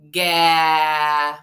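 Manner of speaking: "ga" with an added vowel; wrong drawn-out ga. Shown as a demonstration. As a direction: stretch "ga" into a syllable. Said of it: "like saying".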